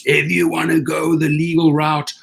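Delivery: shrill-free but high angry clerk yelling him out; imitating her screaming. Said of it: "And she starts screaming".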